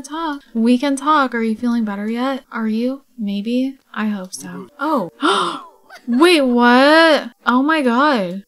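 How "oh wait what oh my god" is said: shocked. Real, not acted. Shocked reaction to the sim.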